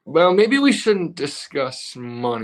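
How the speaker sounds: slow words through a laugh. Real, not acted. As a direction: hold back a laugh while speaking. Laughing aside about money.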